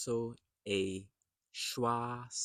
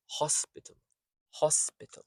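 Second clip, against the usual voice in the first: "hospital" as HOS-pih-tl; strong "hos", quick weak "pital" in "hospital"; unstressed later syllables; 5 semitones higher than usual. Shown as a demonstration. Teacher models the word, "hospital" with only first syllable stressed. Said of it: "The I in hospital is the unstressed".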